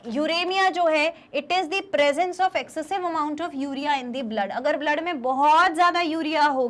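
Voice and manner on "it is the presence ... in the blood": slow, even dictation of a definition; slow note dictation. Shown as a demonstration. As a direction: read the definition for copying. (परिभाषा धीरे-धीरे लिखवाना)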